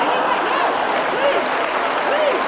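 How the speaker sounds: high, loud call of no over the laughter. Acted. To the laughing audience, a loud mock plea to stop.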